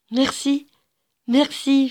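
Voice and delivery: put-on high, comforted little-girl thanks; consoled, grateful. A narrator's reading. Consoled little girl thanking the child for an egg, grateful. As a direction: thank her, all sorrow gone. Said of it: "déjà merveilleusement consolée".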